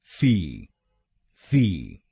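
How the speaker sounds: फी as a short "fee"; last syllable. Shown as a demonstration. Teacher modeling the final syllable: फी as fee. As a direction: finish with फी, fee. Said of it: "हम बोलेंगे".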